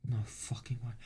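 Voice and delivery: hushed, near-whispered disbelief; barely voiced shock; stunned disbelief. Real, not acted. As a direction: let it out softly, almost voiceless. Stunned by news in game.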